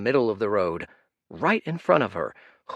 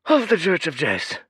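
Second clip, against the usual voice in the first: wheezing proclamation; 9 semitones higher, 6 dB louder than usual. Acted. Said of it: "he wheezed".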